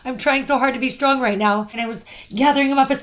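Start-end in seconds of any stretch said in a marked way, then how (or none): 0.0-1.7 strained smile, holding it together; imitating a brave face, slightly lifted; smiling through it. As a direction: re-enact putting on a brave smile. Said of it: "when you're smiling through it".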